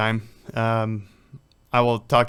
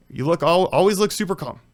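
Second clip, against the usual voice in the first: dad's earnest advice; 6 semitones higher, 4 dB louder than usual. Retold or imitated. Dad's duck advice voiced.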